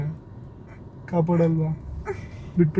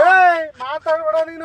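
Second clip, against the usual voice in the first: mock threat; 6 semitones higher, 3 dB louder, slower than usual. Fake rowdy threatens victim.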